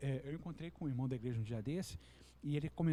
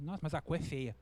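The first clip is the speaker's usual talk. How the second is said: disdainful. Retold or imitated. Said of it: "daquele ar de desdém".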